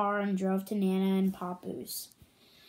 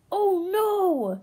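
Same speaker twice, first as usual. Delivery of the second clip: higher, louder dramatic oh no; excited gasp; 9 semitones higher, 7 dB louder than usual. Real, not acted. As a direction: play up the shock for listeners. Narrator reacts to disaster.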